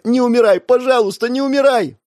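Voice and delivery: high, loud sobbing plea; hysterical pleading. A narrator's reading. Sister begging her dying brother to live. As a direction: beg him not to die, hysterically. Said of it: "истерично закричала девочка".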